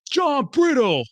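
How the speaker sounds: mock shout, pitched high; Django. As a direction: call the name out in a high, acted holler. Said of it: "And then Django goes".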